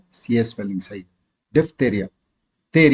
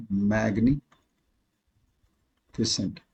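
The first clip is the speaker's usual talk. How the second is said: slow model word; 6 semitones lower, 9 dB quieter, much slower than usual. Shown as a demonstration.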